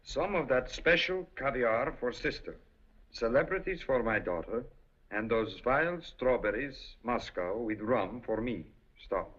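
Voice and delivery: put-on Russian accent, reading a telegram. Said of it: "With a Russian accent".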